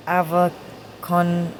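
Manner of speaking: Avacon drawn out slowly, AV-a-con; wrong caption version. Shown as a demonstration. Trying out the captions' wrong name, slow mispronunciation. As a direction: stretch Avacon in separate pieces. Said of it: "something like that".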